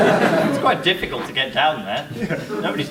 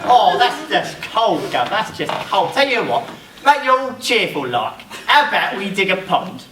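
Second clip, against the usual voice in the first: put-on Cockney accent; 4 semitones higher than usual. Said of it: "Cockney chimney sweep".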